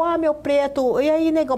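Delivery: tom afetuoso, um pouco mais agudo; cumprimento carinhoso de família. Shown as a demonstration. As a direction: saudar um parente com intimidade. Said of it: "é uma coisa da família". (jeito carinhoso de chamar em casa)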